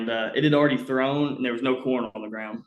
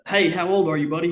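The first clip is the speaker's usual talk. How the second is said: slightly higher, friendly-question retelling of a warden; lightly voiced game warden; 5 semitones higher, 4 dB louder than usual. Game warden asking the boy his age, lightly voiced.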